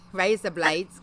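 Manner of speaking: slow attempt at an Australian accent; badly faked Australian accent, drawn out. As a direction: have a go at Australian. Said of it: "I have really bad accents".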